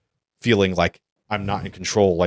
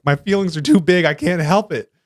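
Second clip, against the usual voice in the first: mock adolescent complaint, pitched way up; whiny fourteen-year-old self; 10 semitones higher than usual. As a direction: imitate your overwhelmed teenage self. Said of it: "I'm, like, fourteen and I'm like".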